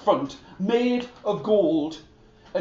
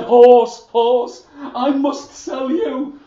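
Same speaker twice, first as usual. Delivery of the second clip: loud, higher, urgent calling; panicked calling; 6 semitones higher, 8 dB louder, slower than usual. Acted. Niels panics and calls to the horse, loud and urgent.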